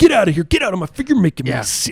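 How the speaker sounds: animated wrestler style, pitch swooping and swinging wildly. Retelling how Randy Savage told Gene off: imitating Randy Savage. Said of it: "Savage is just, I love it".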